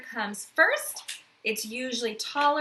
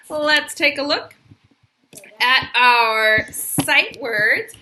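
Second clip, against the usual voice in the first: announcing; 12 dB louder, slower than usual. Real, not acted. Teacher announcing next activity.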